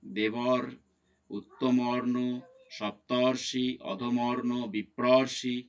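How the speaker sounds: দেবর, উত্তমর্ণ, সপ্তর্ষি said word by word with a clear "or"; "or" sound shown. Shown as a demonstration. Teacher listing sandhi words for students, "or" sound shown. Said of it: "উচ্চারণে দেখতে পাচ্ছি অর".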